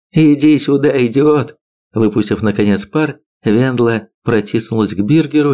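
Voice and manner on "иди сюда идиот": exasperated outburst. A narrator's reading. Wife venting at husband, then hugging.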